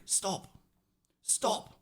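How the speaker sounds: soft, high hushed warning; imitated whisper. Mum quietly warning her learner driver, mock whisper. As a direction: mimic a tiny, hushed warning. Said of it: "Just whispering, whispering".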